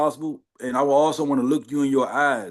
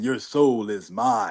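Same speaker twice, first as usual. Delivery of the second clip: Shang Tsung; 2 semitones lower, much slower than usual. Retold or imitated. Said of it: "that Shang Tsung, uh, line".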